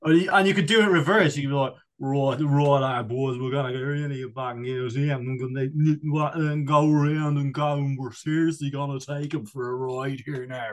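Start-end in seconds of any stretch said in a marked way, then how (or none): 2.0-10.7 a light Matt Williams-style rugby coach impression; lightly voiced posh rugby coach rallying the boys. Mimicking a D4 rugby boy pundit, lightly voiced. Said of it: "D four rugby boy voice".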